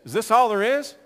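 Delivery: high, loud complaining voice; demanding sinner. Retold or imitated. Mankind complaining to God, loud high whining demand. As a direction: whine at God like a spoiled child. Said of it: "and still man says".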